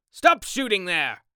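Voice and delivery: top-of-the-voice command; urgent, carrying shout. Acted. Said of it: "at the top of his voice".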